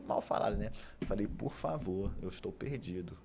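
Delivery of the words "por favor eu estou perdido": almost crying. Retold or imitated. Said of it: "E quase chorando assim".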